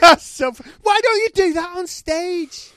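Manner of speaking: high, loud squeal of real amusement; cracking up helplessly; laughing. Real, not acted. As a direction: praise squeezed out through laughter. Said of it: "you've ever made me laugh".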